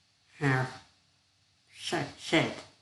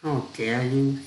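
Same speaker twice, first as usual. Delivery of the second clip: indignant shout. Acted. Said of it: "shouted the wife".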